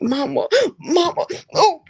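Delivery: laughing through the words. Real, not acted. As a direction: giggle as you say it. Laughing at mother's remark.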